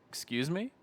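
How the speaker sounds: high, offended question; mock offended excuse me; indignant shock. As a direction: act shocked at the rudeness. Shocked reply to rude greeting.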